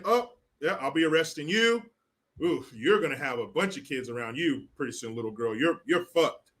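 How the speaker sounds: low, muttered mock cop thoughts; imagined cop's thoughts. Cop privately sizing up the little girl, muttered mock. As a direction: sneer it under your breath like a cop. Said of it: "I bet those cops were thinking".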